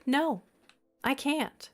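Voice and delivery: ordinary delivery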